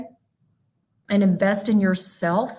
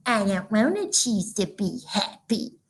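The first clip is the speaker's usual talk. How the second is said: put-on toddler grumble; 3 semitones lower, 5 dB quieter than usual. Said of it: "And he'd go".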